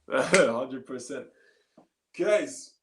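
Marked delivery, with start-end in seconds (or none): 0.1-1.3 drawn-out, amused hundred percent; slow laughing agreement. Real, not acted. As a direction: stretch it out slowly through a laugh.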